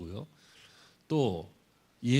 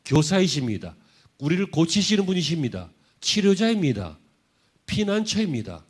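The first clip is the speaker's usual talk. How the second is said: loud, raised declarations, each driven home; impassioned preaching; 6 semitones higher, 9 dB louder than usual. Real, not acted. Preacher declaring who Jesus is to the congregation, impassioned preaching. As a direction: proclaim each title with full force.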